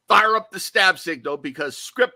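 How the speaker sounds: rally the boys like a movie orc, lightly put on. Podcaster playing a Lord of the Rings orc to co-hosts, mild orc voice. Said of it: "in my best orc voice from Lord of the Rings".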